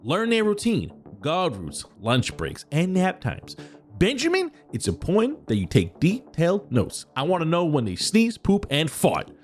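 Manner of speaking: high, upbeat boss character voice; eager corporate villain boss; Kemi Joe voice. Acted. Patreon character reads mission briefing.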